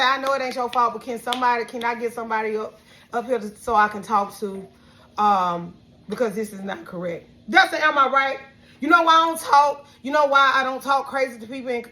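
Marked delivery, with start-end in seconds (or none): 0.0-7.3 lower, softer, measured polite request; retold calm politeness. Upset customer asking fast food worker for somebody else, calm and polite. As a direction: keep it gentle while asking for someone else. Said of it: "Anytime I get upset, upset with somebody, I say".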